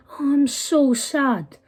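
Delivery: slow, sarcastic mock sadness; mocking fake sorrow. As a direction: drag it out like fake pity. Mocking bullies' fake grief.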